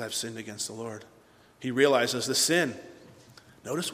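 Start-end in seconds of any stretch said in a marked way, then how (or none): 0.0-1.1 low, very soft admission; subdued confession. Acted. David after being exposed, subdued confession. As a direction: confess it under the weight of being found out.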